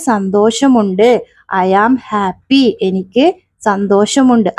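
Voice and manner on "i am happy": slow drill. Shown as a demonstration. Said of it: "teacher drilling phrase".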